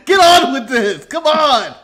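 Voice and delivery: loud, exasperated hurry-up; impatient Manny. Retold or imitated. Imitating Manny waiting on the show, impatient and loud. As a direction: push them along, fed up. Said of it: "the impatience of Manny going".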